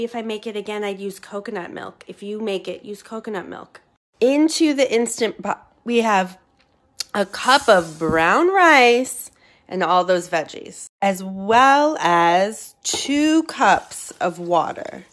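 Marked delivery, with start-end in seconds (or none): 4.2-15.0 loud, drawn-out announcing; raised voice. Real, not acted. Cook listing what goes in the pot, half shouting. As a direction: call out the ingredients over-emphatically. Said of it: "I don't know why I'm screaming at you".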